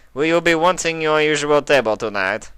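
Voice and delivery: high, attentive waiter; Pierre the waiter. A narrator's reading. Pierre voiced.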